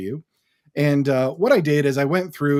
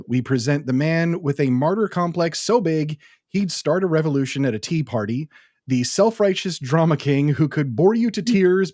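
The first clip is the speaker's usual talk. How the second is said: ring announcer voice. Pretend. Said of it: "my ring announcer voice going here".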